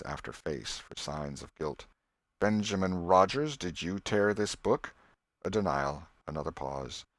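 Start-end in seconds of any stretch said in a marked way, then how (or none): 2.4-4.9 put-on schoolmaster questioning a boy over the torn book; stern schoolmaster. Master questioning pupils one by one.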